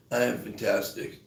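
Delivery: quiet, low, half-hearted mock affirmation; imitating reluctant patient. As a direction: say it softly, like you don't mean it. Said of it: "so she goes like this".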